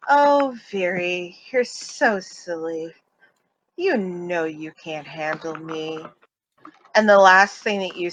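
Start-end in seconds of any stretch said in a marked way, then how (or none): 0.1-6.0 sing-song taunting. Acted. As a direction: draw it out as a mild, teasing sing-song. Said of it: "in a very sing-song, taunting way".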